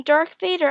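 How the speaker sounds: "Darth Vader" said as "Dark Vader", high and loud; mispronounced as Dark. Retold or imitated. Kid mishears the name, saying "Darth Vader" as "Dark Vader". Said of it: "not Darth Vader, Darth Vader".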